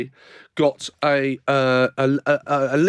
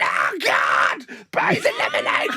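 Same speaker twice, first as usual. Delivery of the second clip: panicking woman; 10 semitones lower, slower than usual. Retold or imitated. Sprayed woman on the tube, mock alarm. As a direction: play it up like a startled passenger. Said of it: "there was a woman going".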